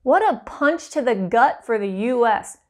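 usual speaking voice

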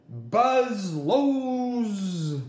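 put-on buzzy little fly calling the boy's name. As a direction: pet fly answering his boy in a buzzing voice. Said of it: "And Fly Guy said".

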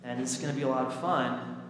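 lightly voiced young dreamer, drawing out phrase endings; Simba/character. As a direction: daydream aloud in a lilting list, lightly acted. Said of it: "he's thinking".

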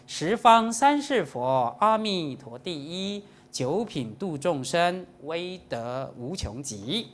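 slow, measured scripture recitation; verse recitation. Shown as a demonstration. Teacher quoting Maitreya's vow to followers, slow solemn recitation.

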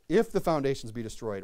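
"If" punched at the head of the verse; stress on IF. Shown as a demonstration. Preacher repeating the verse to his congregation, stress on "If". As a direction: lean hard on the opening "If". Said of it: "I put an emphasis on the word".

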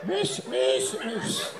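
high, soft little kitty-call; calling an animal. Acted. Trying to call an elephant, calling it softly and high. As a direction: coax it over in a small high voice.

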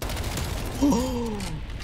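long, high, soft gasp; startled drawn-out intake, falling off. Real, not acted. Startled as he gets shot.

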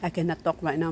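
mouth full. Real, not acted. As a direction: mouth full of apple, chewing. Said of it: "My mouth is full of apple".

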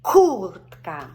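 Картина said very slowly, loud hard К at the start; повільно, з наголосом на К; slow, stressed first syllable. Shown as a demonstration. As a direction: stretch Картина slowly for the child. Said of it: "ми звертаємо на перший склад".

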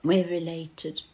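mock hot-and-bothered delivery; as if a bit overheated, lightly played; hot and sweaty. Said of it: "like you're a bit hot and sweaty".

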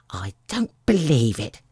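stubborn bird's denial; disbelieving pigeon. A narrator's reading. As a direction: flatly refuse to believe her. Pigeon rejects Alice's claim.

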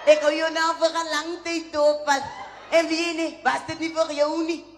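suitor's hammed-up French accent; mock French accent. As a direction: woo her in a put-on French accent, slowing at the end. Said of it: "Hy was die mooiste French accent".

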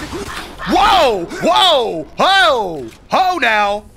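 loud high startled whoas; excited shouts. Real, not acted. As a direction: yelp in shock, then gloat. Surprised by charging enemies.

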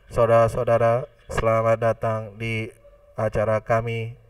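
dull, monotone announcement; flat zombie voice. Shown as a demonstration. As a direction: read it flat and lifeless like a zombie. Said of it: "itu kayak zombie ya". (suara datar seperti zombie)

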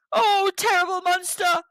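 high, terrified whispered cry; frightened whisper. A narrator's reading. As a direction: whisper it up in terror. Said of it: "called the Shokpa".

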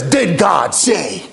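the skeptical world questioning, drawn out; doubting question. Acted. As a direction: stretch each word of the doubt. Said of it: "a world that says".

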